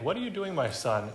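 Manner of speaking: high, sharp accusing question; scolding question. Retold or imitated. Preacher mimicking a scolding parent. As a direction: demand an answer like a disapproving parent. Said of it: "It almost sounds like".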